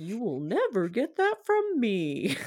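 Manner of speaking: put-on silly kids-TV host voice, like a kids-show dinosaur. Retelling what he said to her as she cried: Barney-like voice. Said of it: "I don't know what this voice is that I'm doing".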